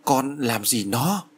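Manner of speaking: slow, mildly shaky frightened question; trembling voice. Acted. Mother asks her daughter about the noose, slow and mildly trembling. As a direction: ask it slowly as if fear grips you. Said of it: "Bà Cẩm Tú run giọng".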